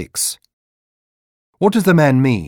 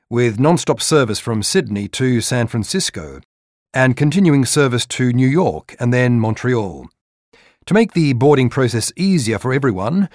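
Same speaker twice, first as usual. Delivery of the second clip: airport announcement. Acted. Gate agent boarding announcement.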